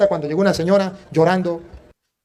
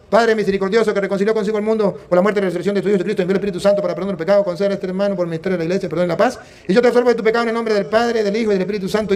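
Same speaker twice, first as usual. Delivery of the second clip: rapid-fire liturgical formula; hurried priestly recitation; recited absolution; faster than usual. Retold or imitated. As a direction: rattle off the prayer by rote. Recites absolution over dying pastor.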